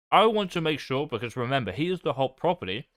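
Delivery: talking with a mouth full of food; words round a bite of rice. Real, not acted. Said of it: "Sorry for speaking with my mouth full".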